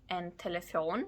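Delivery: "telefon" with the final "fon" stressed; "telefon" ending on a long, stressed "fon"; stress on last syllable. Shown as a demonstration. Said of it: "stress on the last syllable".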